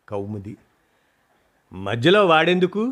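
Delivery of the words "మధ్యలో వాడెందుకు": mildly fed-up retort; irritated. Acted. Daughter retorting to her mother about her husband, mildly irritated. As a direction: snap back a little impatiently. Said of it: "విసుగ్గా అంది".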